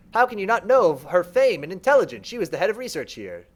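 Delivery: lightly voiced creature, a touch offended; a lightly voiced mind is mildly offended for Danette; indignant servant mind. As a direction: scoff gently at the question.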